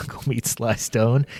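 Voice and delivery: laughing midway through the question; can't keep from laughing. Real, not acted. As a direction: crack up while quoting, stretching it out. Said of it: "can't even say it without laughing".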